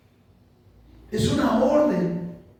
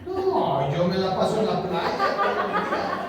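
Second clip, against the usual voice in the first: laughing mock husband; slower than usual. Mocking lazy husband.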